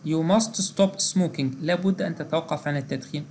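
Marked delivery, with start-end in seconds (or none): 0.1-1.5 teacher reading a model sentence slowly; slow example read. Shown as a demonstration. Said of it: "يعني مثلًا".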